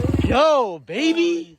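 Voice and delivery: high, loud bro cheer; frat bro hype. Real, not acted. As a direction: hype up your buddy. Celebrating the jump.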